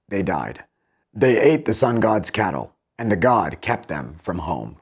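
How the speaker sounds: measured, even reading of epic verse; poem reading. Acted. Teacher reading epic verse to students, measured and even. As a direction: read the Odyssey lines aloud to the class. Reads Wilson's Odyssey translation aloud.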